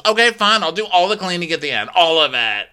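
high, fast reluctant promise; imitating a spoiled huff; mock grudging okay. Camille grudgingly agreeing to do the cleaning.

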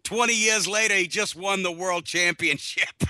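put-on lightly done Boston accent. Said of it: "in a, in a Boston accent".

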